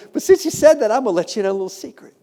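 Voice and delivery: high, imitated French guard's accent; broken-English French accent. French guard offering tourist a secret, imitated French accent. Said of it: "And in broken English".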